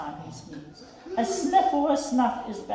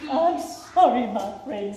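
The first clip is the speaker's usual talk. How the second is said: sadly. Acted. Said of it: "said the elephant sadly".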